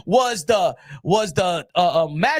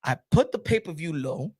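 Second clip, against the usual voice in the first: mock brooding Turki; 9 semitones lower than usual. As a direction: mutter it like a wounded rich man. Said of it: "Turkey Out Shake is like".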